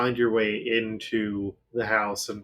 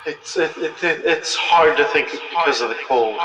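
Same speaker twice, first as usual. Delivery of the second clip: echoing ghostly voice, louder; cool echo effect; 5 semitones higher, 5 dB louder than usual. Acted. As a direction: voice calling through an echo. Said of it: "cool echo effect on this voice".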